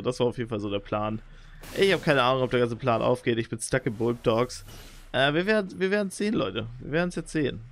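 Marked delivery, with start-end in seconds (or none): none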